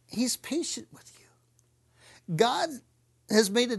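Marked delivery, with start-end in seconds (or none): 0.1-2.4 slow whisper, drawn out; tender whisper. Real, not acted. Preacher reassuring listeners, slow tender whisper. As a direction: hush it like a secret.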